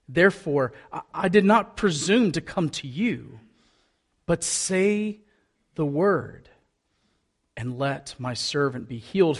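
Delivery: measured, deliberate Bible reading; scripture reading. A narrator's reading. Pastor reading Luke to the congregation, measured scripture reading. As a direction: read the passage out clearly, phrase by phrase.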